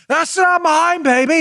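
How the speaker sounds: high-pitched comic denial; mock-indignant and high; Austin Powers. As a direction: protest in a silly, high put-on voice. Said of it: "He's like".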